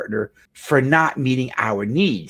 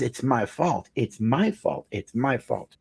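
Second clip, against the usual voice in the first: retold tearful confession; 6 dB quieter, slower than usual. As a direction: quietly repeat it as if crying into your hands. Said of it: "And in the tears and the pain".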